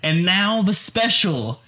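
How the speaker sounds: slow, grand announcer build-up. Retold or imitated. Recalling the fake reveal, grand slow announcer voice.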